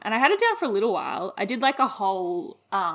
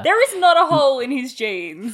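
excited; 5 semitones higher, 8 dB louder than usual. Real, not acted. Excited disbelief at the jeans.

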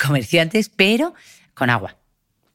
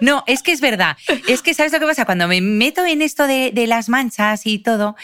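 laughing; 8 semitones higher than usual. Real, not acted. Answers while laughing.

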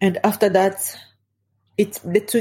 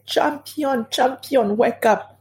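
retold screaming; 5 semitones higher, slower than usual. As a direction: imitate screaming a name at normal volume. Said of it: "So I was screaming Champion's name".

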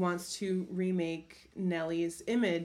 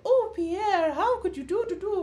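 high, swooning starlet line delivery; hammed-up old Hollywood heroine; melodramatic silent film actress; 11 semitones higher than usual. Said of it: "the line is like".

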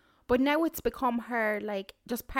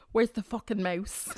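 put-on toddler shout.

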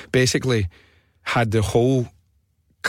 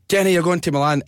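higher-pitched DJ reveal; excited prize announcement; 6 semitones higher than usual. Retold or imitated. Presenter telling Kenny he's won, excited. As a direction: announce the win like a radio host.

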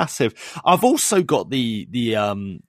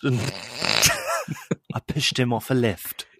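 laughing mock confession; slower than usual. Joking as Mon Mothma.

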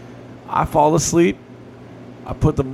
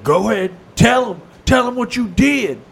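pushy stepmother; 9 semitones higher, 3 dB louder than usual. Retold or imitated. Stepmother accusing him at school.

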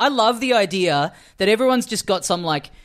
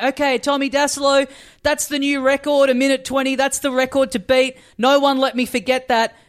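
mock announcement, pitched up; a hint of a hyped contest host; imitating the MC; 6 semitones higher than usual. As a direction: announce the score to a crowd.

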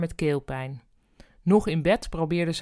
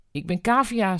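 voice cracking; 3 semitones higher than usual. Acted. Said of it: "met overslaande stem".

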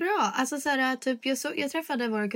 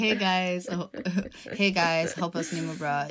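vlogger impression; slower than usual. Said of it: "Oh my God, that's you".

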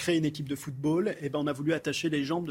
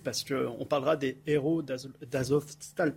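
choking; slower than usual. Real, not acted. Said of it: "pardon, je m'étouffe".

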